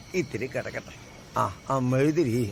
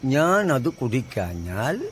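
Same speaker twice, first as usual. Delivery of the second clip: slow, measured line for repeating; verse recitation; slower than usual. Acted. Grandfather teaching a child a verse, slow recitation.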